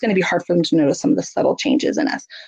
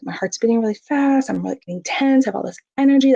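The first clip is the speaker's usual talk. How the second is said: narrating body signals; 3 semitones higher than usual. Shown as a demonstration. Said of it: "and comment, like".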